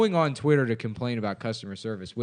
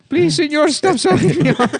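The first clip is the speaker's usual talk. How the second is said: very high, loud pleading with laughter; squeaky little man; 7 dB louder than usual. Acted. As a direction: beg in a tiny high voice. Diego pleads again.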